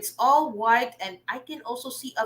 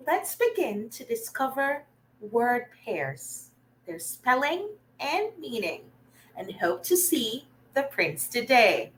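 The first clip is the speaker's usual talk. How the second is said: lightly voiced character, softer than usual; Shelley; 5 dB quieter than usual. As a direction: gently read out the character's message. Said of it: "In Shelley's voice".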